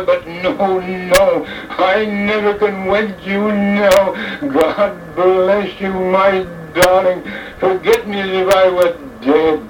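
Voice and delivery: slowing, a touch of tears in the voice; mild tearful farewell. Acted. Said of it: "He wept like a child in his sorrow".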